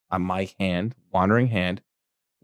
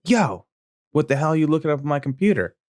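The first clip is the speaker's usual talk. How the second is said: higher, fast accusing dad yell; angry dad; 5 semitones higher than usual. Retold or imitated. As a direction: barge in demanding answers.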